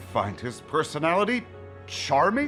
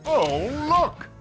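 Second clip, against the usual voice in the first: surprised; 10 semitones higher, 4 dB louder than usual. Acted. Sudden exclamation on discovery.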